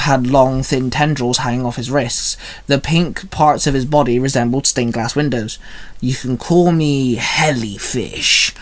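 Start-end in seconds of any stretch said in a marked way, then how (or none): 6.0-8.5 slow, drawn-out monster calling his name; a jellyfish monster slowly naming himself to his foe. Acted. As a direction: announce yourself like a sea monster, slowly. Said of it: "the jellyfish Fangire called out".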